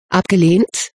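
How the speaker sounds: indignant rising question. A narrator's reading. Aidan challenging Regina over the ball, mildly indignant. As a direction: throw the word back, mildly affronted. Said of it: "fauchte Ali dann ein wenig leiser".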